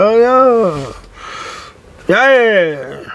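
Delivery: mock Australian, pitched high; Aussie accent. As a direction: imitate an Aussie's drawn-out reaction. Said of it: "Aussie accent".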